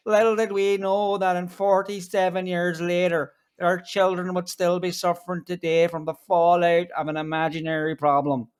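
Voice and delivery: light mock Northern Irish accent, partly slowed; a hint of a Northern Irish politician's accent. Parodying the politician's speech in a light mock Northern Irish accent. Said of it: "your northern accent is getting better".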